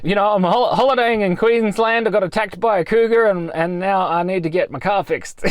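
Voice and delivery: high, rushed babbling; giddy. Retold or imitated. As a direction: babble it, a bit delirious. Retelling own delirious story.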